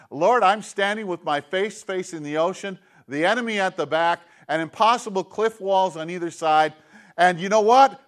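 starts earnest, swells to a loud plea on the last words; prayer rising to a cry. Acted. A believer trapped at the sea cries to the Lord, rising loud. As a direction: pray it out, building until you cry out your hope.

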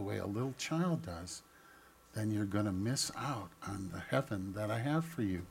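God's gentle warning. Acted. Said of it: "He says".

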